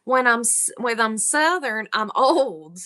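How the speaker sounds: put-on Southern accent; slightly hammed Southern accent; fake Southern accent. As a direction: play up a Southern accent lightly. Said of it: "My Southern accent makes me really slow".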